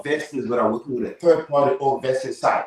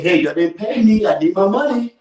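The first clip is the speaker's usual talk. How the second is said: higher-pitched indignant demand; retold pay demand; 6 semitones higher than usual. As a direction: protest that you are owed wages, pitch lifted. Acted quarrel over unpaid wages.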